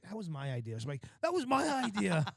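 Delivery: drawn out, very slow repeat; slowly drawn-out mimic; slow mock echo. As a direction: stretch every word mockingly. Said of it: "I'm like".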